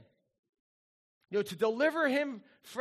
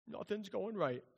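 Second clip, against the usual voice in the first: mock sulk; 8 dB quieter than usual. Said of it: "those moments in your life".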